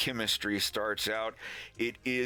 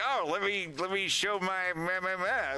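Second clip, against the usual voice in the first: much higher, fumbling and eager; eager Wolf; 9 semitones higher than usual. Retold or imitated. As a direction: stammer it out high and eager. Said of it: "Wolf is all like".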